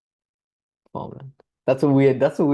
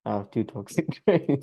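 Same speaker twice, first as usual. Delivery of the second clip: evil laugh. Real, not acted. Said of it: "That was an evil laugh".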